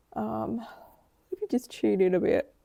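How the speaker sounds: yawning while speaking. Tuning in during a reading for a listener, talking through a yawn. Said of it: "Don't know why I'm yawning so hard".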